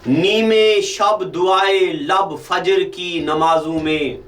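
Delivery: slow, measured recital of an Urdu couplet; poetry recitation. Acted. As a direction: linger on each phrase of the verse. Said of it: "और एक शेर भी सुनाता हूँ आपको".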